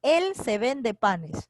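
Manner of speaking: drawn out slowly, "Él" leading; slow test sentence. Shown as a demonstration. Teacher to student, testing a subject that does not fit, slowly. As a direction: try the subject out slowly, word by word. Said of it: "trata de colocarle sujeto adelante".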